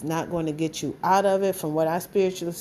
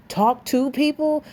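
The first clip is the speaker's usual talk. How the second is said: pitched up in disbelief; higher, louder scoffing question; incredulous echo; 6 semitones higher, 4 dB louder than usual. Real, not acted. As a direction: throw their words back, amazed. Echoes the quote in disbelief.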